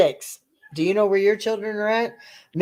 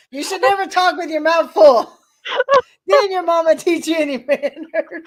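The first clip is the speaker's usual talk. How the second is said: playful scolding, higher pitch; mock scolding mother; 5 semitones higher than usual. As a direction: scold him like a prim mother.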